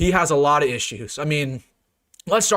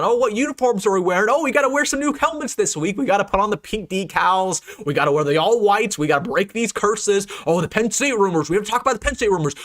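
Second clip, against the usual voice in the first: pitched-up sarcastic mimicry of the team's distractions; mock the team's chatter in a higher, silly voice; mocking whiny voice; 5 semitones higher than usual. Fan mocking the program's distractions, sarcastic high voice. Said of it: "Nebraska was too focused on".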